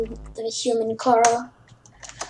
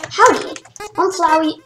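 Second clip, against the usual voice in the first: much higher cheerful flower greeting; Flowey voice; 4 semitones higher than usual. Acted. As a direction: chirp the howdy like a sweet little flower.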